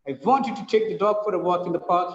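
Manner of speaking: quick sentence with peaks on "want", "take", "dog", "walk", "park"; fast rhythm demo, stressing "dog", "walk", "park"; rhythmic stress. Shown as a demonstration. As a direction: bounce through the beats to "park". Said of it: "five times the go, voice go, raises up".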